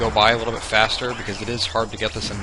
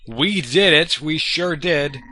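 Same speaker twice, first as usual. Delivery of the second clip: loud, high cheer of victory; excited cheer; 4 semitones higher, 4 dB louder, slower than usual. Real, not acted. Player cheering the cleared level, loud and excited. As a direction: shout it out like you just won.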